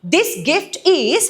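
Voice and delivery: "This gift is" stretched right out; teacher reads the example line slowly. Shown as a demonstration. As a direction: draw out each word of "This gift is". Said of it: "కిటుకు ఏంటంటే చూడండి".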